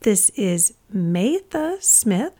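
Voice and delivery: slow, guarded reply to a stranger; a slow, wary phone answer; suspicious answer. Retold or imitated. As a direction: answer warily, drawing it out. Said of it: "I suspiciously answered".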